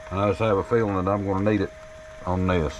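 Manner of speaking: muffled behind a face shield; speaking through a face shield, muffled. Real, not acted. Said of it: "If I sound muffled".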